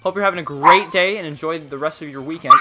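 hammed-up British greeting.

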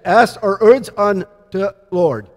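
put-on "Ask er erds on de Lord" slowly, with the R in cares dropped and a childlike "de"; slow three-year-old lisp with "erds" for cares; toddler speech. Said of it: "Let me try it again".

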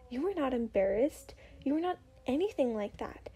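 hurried whisper of denial. Acted. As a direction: whisper it fast to yourself. Flustered inner denial.

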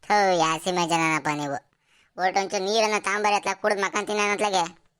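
loud, fed-up groaning call for water; exasperated shout. Acted. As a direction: bark it out, sick of them. Husband in pain yells back. (ಬೇಸರದಿಂದ ಜೋರಾಗಿ ಕೂಗು)

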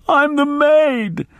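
put-on high, slow wailing old woman; wailing maid. A narrator's reading. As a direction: wail it high and long.

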